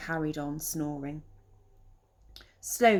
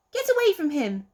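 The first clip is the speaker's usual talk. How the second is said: high loud protective shout; 9 semitones higher, 6 dB louder than usual. Acted. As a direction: shield your friend. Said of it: "Peter shouted".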